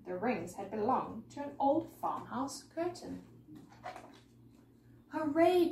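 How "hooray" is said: high, loud story-time cheer; joyful cry. A narrator's reading. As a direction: cry out in delight. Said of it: "cried the scarecrows".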